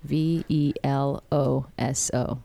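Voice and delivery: slow letter-by-letter spelling. Shown as a demonstration. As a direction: spell each letter slowly and clearly. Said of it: "you're gonna have to spell that for us".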